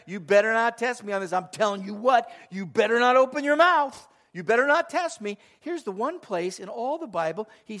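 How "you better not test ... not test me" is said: wag a finger as a stern God; hammed-up stern warning from God. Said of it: "there are times God is really direct".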